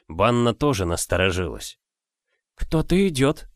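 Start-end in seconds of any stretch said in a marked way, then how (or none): 2.5-3.5 a lightly voiced old woman. A narrator's reading. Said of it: "сказала она". (голос старухи)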